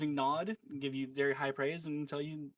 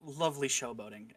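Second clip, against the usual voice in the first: sighing; 2 semitones lower than usual. Acted. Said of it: "kind of sigh and say".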